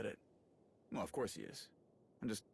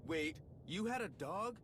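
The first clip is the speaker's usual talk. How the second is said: much higher, slow, delighted disbelief; surprised; 9 semitones higher than usual. Acted. Ras learns the Mandalorian had a hunting strill, surprised. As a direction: perk up at the news of a pet.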